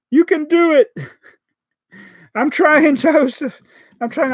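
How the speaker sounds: high, loud self-encouragement; high-pitched straining I'm trying; strained cheering. Real, not acted. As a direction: cheer yourself on through a fiddly build. Struggling with the Lego piece.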